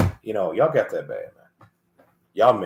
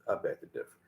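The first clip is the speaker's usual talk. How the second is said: a breathy whisper, almost no voice; 12 dB quieter than usual. Shown as a demonstration. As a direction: drop to a whisper to make the point. Whispered aside after rhetorical question.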